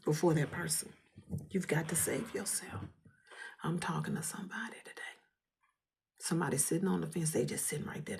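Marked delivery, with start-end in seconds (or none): 3.6-8.2 fast whisper. Real, not acted.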